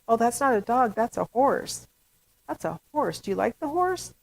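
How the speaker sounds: lightly voiced caregiver, lilting up to the question; a hint of talking to a toddler; parent to child. Parent gently correcting child who said dog, instructive. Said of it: "parent's job or a caregiver's job to say".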